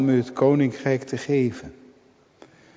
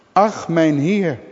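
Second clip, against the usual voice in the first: slow, higher cry of despair; 4 semitones higher, 3 dB louder, slower than usual. Acted. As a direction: cry out "Ach" slowly, in despair. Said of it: "een schreeuw van wanhoop". (langzame wanhopige uitroep "Ach, mijn heer")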